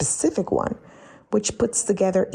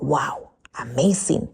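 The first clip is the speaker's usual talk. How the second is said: awed whisper; 6 semitones lower, slower than usual. Retold or imitated. Imitating awed newcomer.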